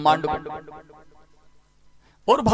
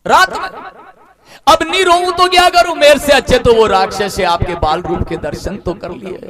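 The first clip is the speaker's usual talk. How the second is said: higher, louder grieving protest; anguished outcry; 6 semitones higher, 5 dB louder than usual. Acted. Moon to Ram, wailing he was denied darshan. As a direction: cry out the hurt at the god.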